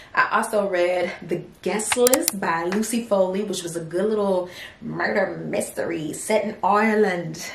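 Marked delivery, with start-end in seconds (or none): 3.4-7.5 a bad, lightly put-on Irish accent; horrible Irish accent. Shown as a demonstration. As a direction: try an Irish lilt and miss it a bit. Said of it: "That is a horrible accent".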